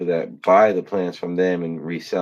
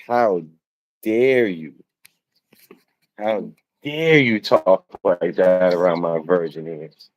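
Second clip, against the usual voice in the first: mock disgust. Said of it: "that's the tone you wanna put forth, disgust".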